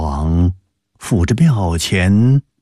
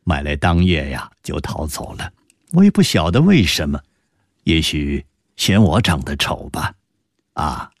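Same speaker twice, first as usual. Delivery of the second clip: subdued after silence; 3 semitones lower than usual. Acted. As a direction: answer after a pause, a touch dejected. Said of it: "陈黄沉默了一下". (沉默片刻后略带落寞地说)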